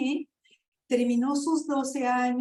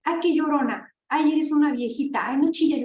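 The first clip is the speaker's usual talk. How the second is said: mocking taunt; 3 semitones higher, 5 dB louder than usual. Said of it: "las mujeres nos tildan de".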